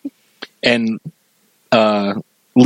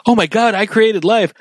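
imitating Lisa, amazed; 8 semitones higher than usual. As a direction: gasp it out as Lisa in wonder. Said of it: "and she's like".

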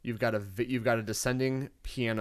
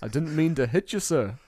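mock British politeness; 2 semitones higher than usual. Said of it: "Is that a famous singer?".

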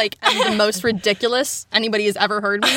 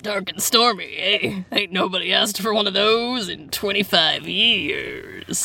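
put-on slow, gruff old bartender; a lightly voiced salty barkeep; grizzled bartender; 2 semitones lower, slower than usual. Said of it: "I'll be the bartender".

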